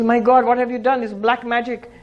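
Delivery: be aghast at the stuck donkey; shocked outburst. Acted. Washerman shocked donkey won't move.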